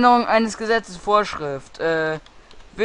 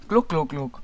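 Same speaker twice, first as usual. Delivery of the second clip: gulping sounds; 3 semitones lower, 7 dB quieter than usual. Pretend. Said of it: "Ist es Eistee?".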